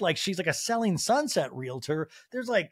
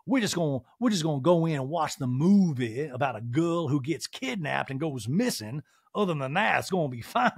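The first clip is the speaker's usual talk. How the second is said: lightly voiced talking-head impression; slightly put-on interview voice; a hint of mock character. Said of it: "Sutton continues in a talking head".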